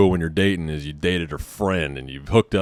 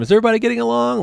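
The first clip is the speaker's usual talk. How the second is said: much higher and fast, a chirpy put-on girl voice; mock girly voice; much faster than usual. Girlfriend returning from the bathroom, asking high and fast. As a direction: squeak it out high and quick like a bubbly friend.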